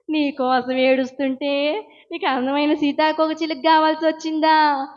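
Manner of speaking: tearful, hurt scolding of her son; crying reproach. Retold or imitated. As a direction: scold him through tears. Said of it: "అని ఏడ్చుకుంటూ". (ఏడుస్తూ కొడుకును నిందించడం)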